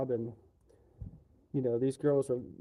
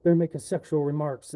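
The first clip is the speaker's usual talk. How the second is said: louder mock whine of the women coworkers; mocking complaint; 6 dB louder than usual. Worker mocking female coworkers' complaint, louder sneering imitation. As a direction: sneer their complaint back at them. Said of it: "them girls be like".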